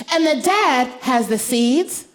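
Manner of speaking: put-on high, careful child's voice; lightly voiced high little girl; 1 serious little girl. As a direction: spell it out like a thoughtful toddler. Daughter voiced.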